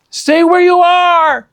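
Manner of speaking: high, loud commanding shout. Acted. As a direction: order her to stay back. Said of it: "Jack shouted".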